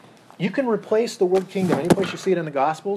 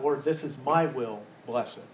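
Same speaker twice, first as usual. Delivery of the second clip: MY weighted in a mock prayer; stress on MY; 3 semitones lower than usual. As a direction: lean on "my" as the wrong prayer. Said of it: "See the contrast there?".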